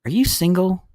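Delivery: mock flirty question; flirting woman. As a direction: imitate a forward woman, lifting the pitch. Imitates woman coming on to him.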